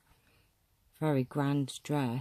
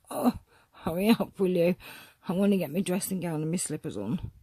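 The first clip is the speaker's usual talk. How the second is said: impatient corseted woman; 3 semitones higher, 4 dB louder, faster than usual. Pretend. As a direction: voice her impatience, rushing the last part. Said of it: "Look, she's like".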